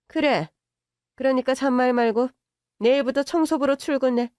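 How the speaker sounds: no arguing, just order; commanding rich mother. Acted. Mother ordering her to work as cleaner, commanding.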